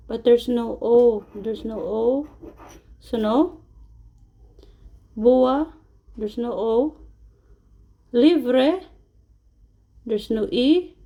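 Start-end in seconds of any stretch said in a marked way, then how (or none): none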